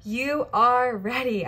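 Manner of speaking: out of breath. Real, not acted. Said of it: "I'm, like, out of breath".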